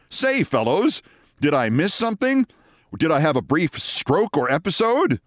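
put-on hearty old-school voice gone baffled. Confused producer asking the men what happened, puzzled gent voice. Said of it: "is really confused".

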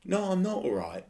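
high-pitched exasperation; annoyed. Real, not acted. Podcaster venting to co-host about fans, annoyed. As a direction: let the irritation push the pitch up. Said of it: "it annoys me".

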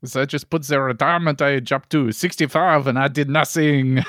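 mock French recounting; French accent. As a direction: tell it in a put-on French accent. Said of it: "French person with a French accent".

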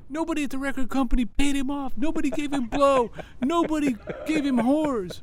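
high, emphatic run of denials; incredulous excitement. Real, not acted. Guest tells hosts nobody paid the programmer off, excited. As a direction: marvel at it, pitched well up. Marvels at unpaid radio plugging.

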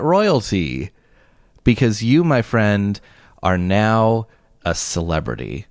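grand, deliberate announcement with pauses; mock-solemn tribute. Host honoring co-host as internet royalty, mock-grand. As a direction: build up to a pompous proclamation.

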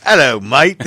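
loud, laughing Aussie greeting; hammed-up, badly faked Australian accent. Mocking own slip from British, bad Australian accent. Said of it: "from British to fucking Australian".

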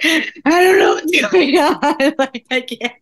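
a desperate cry for help down the phone; retold panic, voice up and drawn out; distressed plea. Calling her coach in distress.

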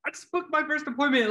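high excited whisper-shout held back; bursting with joy but keeping it down; giddy high voice; thrilled. Retold or imitated. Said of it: "I had to keep it quiet".

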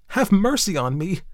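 high-pitched panicky appeal; gasped plea. A narrator's reading. Sister overwhelmed by brother's embraces, gasping. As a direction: beg for mercy in a high voice. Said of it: "she gasped".

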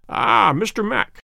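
a drawn-out teasing reproof; reproving. A narrator's reading. Holmes to Mister Mac, mildly chiding and slow. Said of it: "shaking a reproving forefinger".

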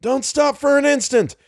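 high-pitched rallying cry; courageous exhortation. A narrator's reading. Leader urges men on through the marsh, exhorting. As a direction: cry out to spur them on. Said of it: "courageous exhortation".

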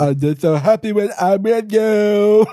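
high, loud, childlike put-on voice; goofy high-pitched Corky impression. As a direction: talk up high like Corky, sweet and simple. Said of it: "do the voice like Corky".

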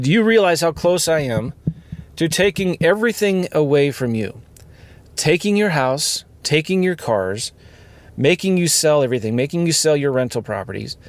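measured, emphatic retelling of a threat; retold stern warning. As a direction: list each threat deliberately, pitched a little up. Stern warning from tax collector.

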